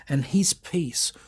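soft, slow whispered promise; preacher reading Philippians to the church, slow whisper. Acted. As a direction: whisper the verse slowly and gently. Quiet scripture reading closing.

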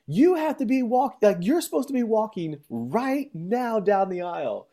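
a relative urging grandpa to the aisle, high mock voice. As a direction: pitch it way up like a frantic relative.

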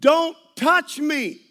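loud, slow, drawn-out yell. Retold or imitated. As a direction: yell it out to the whole plane. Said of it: "I'm not yelling loud enough".

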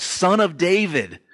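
high, slow pleading call; a blind beggar calling out over the crowd, pleading; retold shout. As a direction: cry out to Jesus for mercy, stretched. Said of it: "he shouts out".

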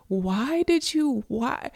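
high, slow disbelieving "what? why?"; incredulous listener. Pretend. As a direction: play a stunned listener asking why. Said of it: "You're gonna be like".

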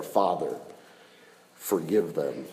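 soft, low, reverent plea; hushed prayer. Retold or imitated. Preacher softly voicing Jesus praying for his killers, hushed. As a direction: breathe it out like a dying man's prayer.

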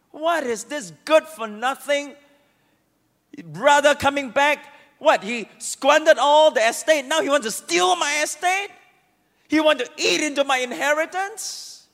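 the elder son ranting that he's cheated; indignant outburst. Acted. Elder son protesting his brother's return, indignant. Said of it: "he got furious".

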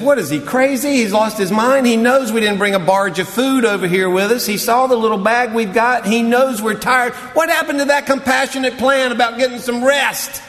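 high, indignant grumbling; sarcastic disciple. Retold or imitated. Disciple grumbling to the others about Jesus, sarcastic and high. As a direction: complain with rising scorn. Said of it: "they got sarcastic".

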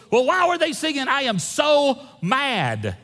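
high, loud complaint slowing into a laugh; mock indignant congregant. Congregant misheard soul as so mad, indignant and laughing. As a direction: fuss like he misheard the song. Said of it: "He goes".

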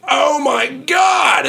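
drawn-out, high shouted alarm; retold panicked shout. Ranger spotting a child on a bear, shouting in alarm. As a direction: yell it like a ranger who just saw the kid. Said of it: "and goes".

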